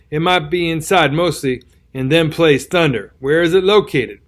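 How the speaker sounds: rustic old soldier, lightly voiced; folksy backwoods drawl of a wounded soldier; tattered soldier voice. Tattered soldier warns the youth.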